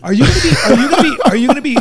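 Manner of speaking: giggling, rushed question; laughing. Real, not acted. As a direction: laugh the words out. Laughing while asking about dinner.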